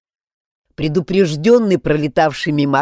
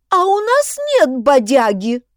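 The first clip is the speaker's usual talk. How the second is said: high whiny complaint; whimpering; 9 semitones higher, 5 dB louder than usual. A narrator's reading. First-aid kit whining about the missing bodyaga, mild whimper. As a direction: whine it once again. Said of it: "хныкнула аптечка".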